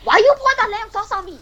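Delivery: very high-pitched wail of complaint; comically high, aggrieved caricature; Gordon Ramsay. Acted. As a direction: squeal it as dying last words. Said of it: "he has one last word to say".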